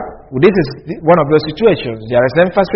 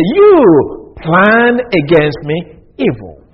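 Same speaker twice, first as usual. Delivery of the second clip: slow literal reading; much slower than usual. Shown as a demonstration. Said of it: "That is the literal translation".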